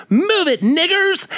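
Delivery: very high, mock white-guy yell; imitated white voice. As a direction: put on a squealing caricature of a white man's voice. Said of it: "his best white vo-, voice goes".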